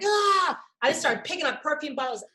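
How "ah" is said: high retold "ah" scream; mock freak-out yell. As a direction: cry out like a kid losing it. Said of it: "I freaked out".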